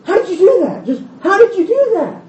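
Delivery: high, laughing disbelief; amazed disciples. Retold or imitated. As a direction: marvel at him, half laughing. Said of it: "And he gets in the boat".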